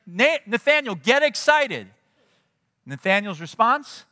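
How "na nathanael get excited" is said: high, eager call to a friend; loud and high-pitched with excitement; excited friend. Retold or imitated. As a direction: pump him up, voice jumping high. Philip excitedly telling his friend.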